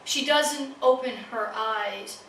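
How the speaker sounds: measured recital, each phrase falling away at its end; poetry reading. Acted. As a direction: recite line by line, pausing after each image. Reads poem in cat's persona.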